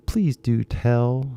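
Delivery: slow Southern belle drawl; a lightly voiced Southern belle; classical Southern accent. Shown as a demonstration. Teacher showing how Gone with the Wind sounds, Southern accent. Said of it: "that's kinda classical Southern accent".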